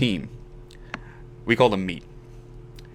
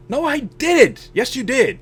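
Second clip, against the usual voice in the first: high, drawn-out mock protest; retold squabble; 14 semitones higher, slower than usual. Injured player argues with coaches about his arm, retold squabble. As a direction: act out a stubborn back-and-forth.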